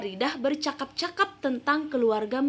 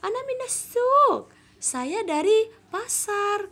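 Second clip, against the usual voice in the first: put-on much higher girl's voice; Jamila's answer; 10 semitones higher, slower than usual. Shown as a demonstration. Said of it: "Dijawab oleh Jamila".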